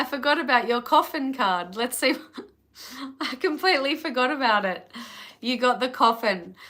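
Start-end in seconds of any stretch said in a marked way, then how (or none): 2.7-4.9 quick, laughing admission. Real, not acted. Forgot the Coffin card, laughing at herself fast. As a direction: laugh at your own slip, fast.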